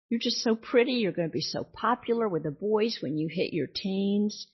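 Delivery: high, sing-song praise rising on pretty; gushing parent again. Retold or imitated. Parent repeating praise to daughter, high sing-song gush. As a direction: lay the flattery on thick. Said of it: "that's what they emphasize all the time".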